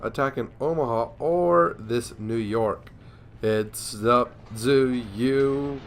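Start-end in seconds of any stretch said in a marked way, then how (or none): 3.4-5.8 excited taunt. Real, not acted. Taunting enemy, calling for ammo.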